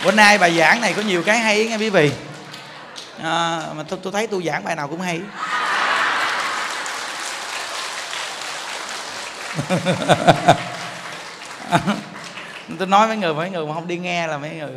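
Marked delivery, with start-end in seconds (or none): 5.3-12.7 breathy unvoiced laughing fit; real soft chuckling; long soft laugh. Real, not acted. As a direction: laugh quietly at your own boast. Laughs at own boast.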